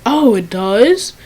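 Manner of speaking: slow, mocking "Oh, it does?"; a Karen feigning surprise, sarcastic. Rude customer mocking the teen worker, sarcastic. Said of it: "she said it in a real sarcastic way".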